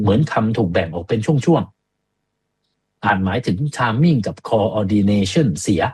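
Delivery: very slow, broken into chunks; showing speech split into pieces; choppy demo. Shown as a demonstration. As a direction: chop the words apart to show the slur.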